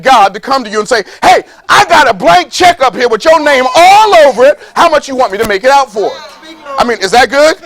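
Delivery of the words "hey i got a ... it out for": high, bright pitched-up voice of God making an offer; breezy higher God voice, a bit louder; playful God voice. Pretend. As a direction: sell it like a generous boss upstairs. Preacher voices God offering check.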